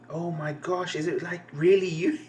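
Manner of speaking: a hint of gushing fangirl with rising question; lightly voiced fangirl. Fan meets her celebrity idol, lightly voiced fangirl. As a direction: lightly act a starstruck fan. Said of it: "talking really fast like fangirls do".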